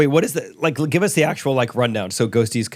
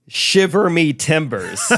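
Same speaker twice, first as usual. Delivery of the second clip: pirate voice; 4 semitones higher, slower than usual. Pretend. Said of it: "Let's just say".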